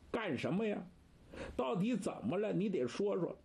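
a hint of a blunt gruff man, fast and pushy; Tie Sanye. Third Master scolding old watchman, lightly voiced gruff. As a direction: rattle off the complaints fast.

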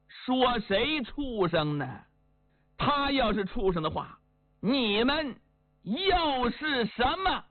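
a grandmother's voice with a touch of reproach, not really aged; old woman's voice. Acted. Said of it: "这是一个老妇人的声音呐".

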